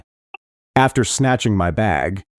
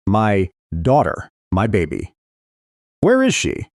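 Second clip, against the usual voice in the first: sobbing plea. A narrator's reading. Injured mother begs the neighbor for her daughter, sobbing. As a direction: beg for your lost baby through tears. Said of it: "I can't stop my sobbing".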